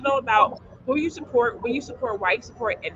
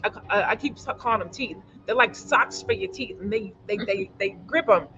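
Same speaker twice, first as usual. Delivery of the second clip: mouth full. Real, not acted. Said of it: "I'm stumbling over my words 'cause these teeth".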